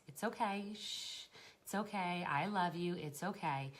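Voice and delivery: soft soothing murmur, demonstrated; lightly acted calming repetition. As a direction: hush and reassure a child, over and over. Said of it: "in a very calm voice".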